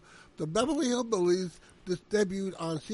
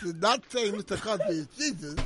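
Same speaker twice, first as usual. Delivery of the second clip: lisping without front teeth. Real, not acted. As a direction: toothless lisp. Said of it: "with a horrible lisp".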